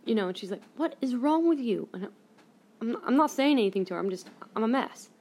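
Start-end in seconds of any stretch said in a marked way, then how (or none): 0.8-1.9 pitched-up, louder imitation of mom; mock impatient motherly demand; exasperated mom. Mom presses sobbing daughter, exasperated imitation.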